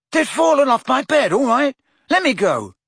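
high, loud and impatient; angry shout. A narrator's reading. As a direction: demand to be let down. Ron yelling while dangling.

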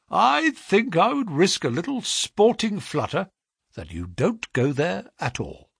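butter him up briskly; flattering brisk agent. A narrator's reading. Agent flatters the clerk's talent, eager and brisk. Pinner teases.

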